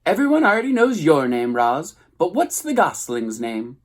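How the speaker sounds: high, loud scolding squawk; scolding goose. A narrator's reading. Goose telling the robot to make things right, high squawk. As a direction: lecture like a bossy old goose.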